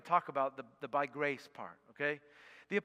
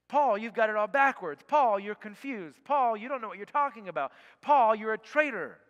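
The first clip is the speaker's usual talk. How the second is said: a touch louder, mock accusing voice; accusers of Paul; 4 semitones higher, 5 dB louder than usual. Critics accusing the apostle Paul, mock indignant. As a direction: lightly voice the critics scolding Paul. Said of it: "the accusations levied against the Apostle Paul".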